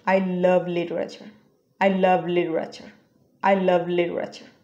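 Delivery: very slow, each word spaced out; slow demo sentence. Shown as a demonstration. Teacher repeating the sentence slowly for learners. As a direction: model the line slowly, word by word. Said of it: "আমরা এটা সেন্টেন্সে ব্যবহার করতে পারি".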